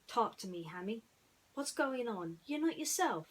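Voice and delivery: rising, concerned friend voice; worried Woody. Acted. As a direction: ask gently but urgently.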